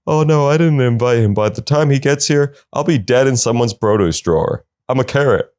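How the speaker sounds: a quick, chirpy talking vegetable; voiced plant. Comic answering about the party, as a cartoon carrot.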